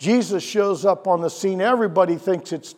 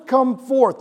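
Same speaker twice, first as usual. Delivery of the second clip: Jesus calling Lazarus forth; called out; 5 semitones higher than usual. Retold or imitated. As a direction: come forth called after the name. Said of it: "he yells out".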